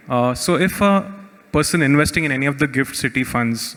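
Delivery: muffled voice, as through a hand; words muffled behind a hand. Real, not acted. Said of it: "your voice is a little muffled".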